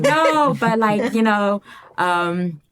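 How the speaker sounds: high, loud, sing-song mock of a breezy white girl; imitating the girl's chirpy rainbow-nation line; mocking her. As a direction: parody her cheerful denial. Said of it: "And she's like".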